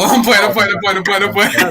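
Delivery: giggling through it; laughing I'm playing. Real, not acted. Laughing apology after tease.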